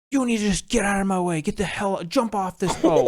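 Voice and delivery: put-on high, caricatured drunk guest voice; mock the guest telling a worker to jump; drunk yelling. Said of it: "yelled at one of the workers".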